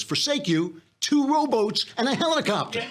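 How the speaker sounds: God losing patience with the pastor. Retold or imitated. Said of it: "a voice comes out of the ball of light".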